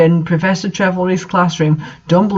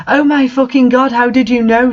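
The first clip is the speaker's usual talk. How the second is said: higher, hammed-up astonishment; amazed fanboy, pitched up; mock gasp; 6 semitones higher than usual. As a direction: overdo the shock. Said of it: "Satan gasped".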